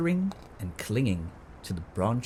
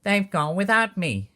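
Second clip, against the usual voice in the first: high, loud wail of being left out; hammed-up storybook lament; cried out; 10 semitones higher, 8 dB louder than usual. A narrator's reading. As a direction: wail it like a little one left behind. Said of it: "And he cried".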